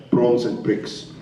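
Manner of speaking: short, slow South African vowels; careful South African accent. Shown as a demonstration. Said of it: "South African is a bitch".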